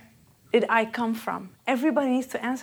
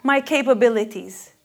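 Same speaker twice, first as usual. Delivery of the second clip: pitched up, searching questions; eager questioning; 4 semitones higher, 5 dB louder than usual. Retold or imitated. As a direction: voice the seeker's longing. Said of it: "And everybody wants it".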